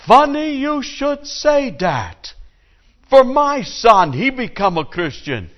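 high squeaky punchline voice. Acted. Jewish father answers his friend, high and drawn out. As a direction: pitch jumps way up, slow and drawn out.

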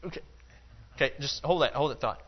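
sharp loud "wait, wait" cutting him off, then easing to calm; urgent stop shout. Acted. Jesus stopping Jairus before he speaks, loud then calming. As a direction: halt him mid-sentence with a loud call. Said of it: "And Jesus goes".

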